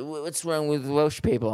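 loosely imitated Welsh accent; attempted Welsh accent. Comic mimicking the offended girl, attempted Welsh accent. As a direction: have a rough go at a Welsh accent. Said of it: "I'm not, can't do accent".

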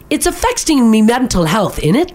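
put-on British accent; lightly imitated British slang accent. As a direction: say it with a casual mock-British lilt. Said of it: "in a British accent".

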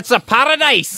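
high, slow put-on Scottish lilt; a settler gushing in a hammed-up Scottish voice; mock Scottish. Settler praising Invercargill in a mock Scottish accent.

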